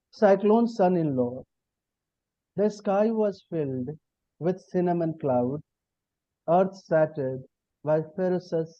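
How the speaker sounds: lyrical recital, lines lifted at their starts; poetry reading. Acted. Poet reciting Cyclone Son-in-Law to the audience, lyrical. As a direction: savour each image with long pauses between lines. Poet reads his poem aloud.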